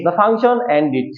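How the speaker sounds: slow model sentence, "ended" ending in "-dit"; corrected pronunciation. Shown as a demonstration. Teacher gives the class an example sentence, corrected pronunciation. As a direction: say "ended" with a short i in the last syllable. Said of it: "তবে এখন থেকে আমরা কি বলবো?".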